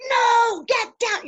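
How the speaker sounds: high, loud command to a dog; retold yell. Woman bullying a pit bull off her porch, yelling. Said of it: "and I just yell at her".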